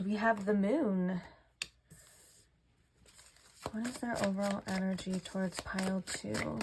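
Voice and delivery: soft, near-whispered question to Spirit; hushed card draw. Acted. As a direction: lean in and ask it under your breath. Asks Spirit, draws cards.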